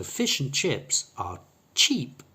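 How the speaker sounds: slow, short I in "fish and chips", long ee in "cheap"; short I versus long E. Shown as a demonstration. Teacher putting the contrast in a sentence, short then long vowel. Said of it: "has a long E sound".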